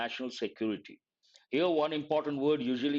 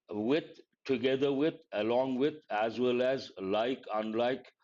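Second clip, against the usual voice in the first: slow, deliberate listing. Shown as a demonstration. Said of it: "expressions like".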